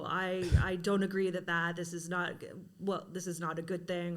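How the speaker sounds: mock aggressive challenger. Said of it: "somebody aggressively says to me".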